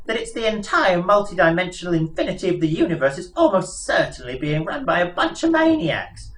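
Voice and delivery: high, chirpy little mouse voice; piping mouse voice. Acted. Mouse explaining their plans to Arthur, piping high voice. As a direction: squeak it out like a pompous lab mouse. Frankie mouse long speech.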